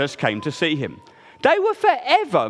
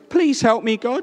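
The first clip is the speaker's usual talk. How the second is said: little squeaky voice; 5 semitones higher than usual. Acted. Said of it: "in a little squeaky voice".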